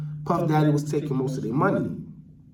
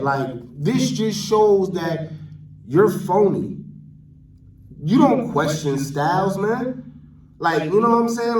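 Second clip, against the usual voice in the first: real indignant scolding, pitched up; heated rant; 4 semitones higher than usual. Real, not acted. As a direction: defend him like it's personal, voice raised. Heated defense of Styles.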